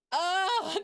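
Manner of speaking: high loud moan while stretching. Real, not acted. Streamer stretching at her desk, accidental high moan. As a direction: let a moan slip out mid-stretch. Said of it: "That was just a moan".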